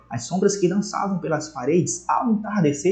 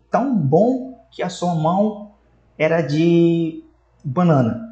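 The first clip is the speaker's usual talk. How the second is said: slow, mock-admiring tão bom que a sua mão era de banana; ironic praise; slower than usual. Shown as a demonstration. Teacher acting out an ironic remark about a bad goalkeeper, slow and mock-admiring. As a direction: savour the fake praise, then land the punchline slowly. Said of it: "Então eu fiz uma ironia".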